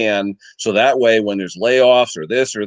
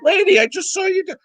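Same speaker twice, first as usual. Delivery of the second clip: much higher, stress on "Lady" in "Lady, I just saw you do"; exasperated retort. Retold or imitated. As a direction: pitch well up and hit "Lady" first. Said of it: "I'm like".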